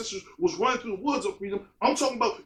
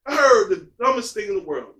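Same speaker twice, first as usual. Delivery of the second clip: loud announcement; 2 semitones lower, 7 dB louder than usual. Acted. Loud opener, then repeated.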